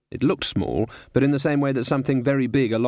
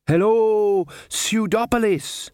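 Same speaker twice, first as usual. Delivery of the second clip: big stage shout, raised high; loud announcer; 11 semitones higher, 3 dB louder, slower than usual. A narrator's reading. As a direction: call out to a huge crowd. Performer greeting crowd.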